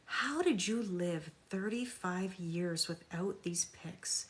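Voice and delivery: slow, soft sarcastic awe; sarcastic slow marvel at their neediness; mock amazement. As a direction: drag it out in fake wonder. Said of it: "This is what I say".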